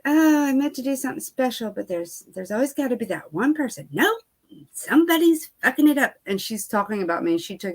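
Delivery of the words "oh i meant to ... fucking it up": high, mocking sing-song of the owner; mock whiny owner. Owner posting about her on stories, mocked in a high whiny voice.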